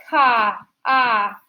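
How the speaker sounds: "ka" then "ah" sounded out; sound demo. Shown as a demonstration. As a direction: say "ka", then a short "ah". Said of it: "the K sound".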